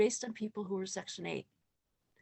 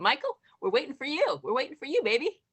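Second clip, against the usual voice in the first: calling out; 6 semitones higher, 6 dB louder than usual. Real, not acted. Calling out to Michael playfully.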